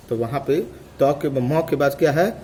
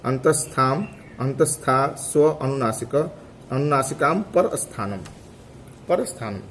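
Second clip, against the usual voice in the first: sutra recitation. Shown as a demonstration. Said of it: "फिर से एक बार देख लीजिए".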